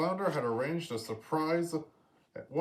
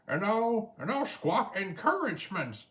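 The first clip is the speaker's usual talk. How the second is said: bumbling Scuttle; 8 semitones higher than usual. A narrator's reading. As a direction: stumble over an eager offer. Scuttle adds.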